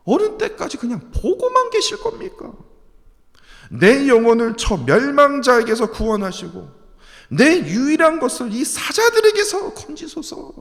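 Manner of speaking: high, loud pleading to God; David's lament, read as a desperate plea; lamenting cry. Acted. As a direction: cry out to the Lord in anguish. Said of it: "이렇게 탄식하시지 않습니까".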